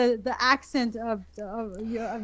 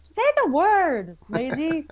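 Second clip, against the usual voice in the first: mock exasperation; 2 semitones higher, 4 dB louder than usual. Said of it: "I'm like".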